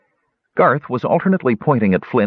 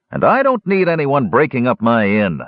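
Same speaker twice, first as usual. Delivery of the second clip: countering; 6 semitones higher than usual. Acted. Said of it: "countered Muldoon".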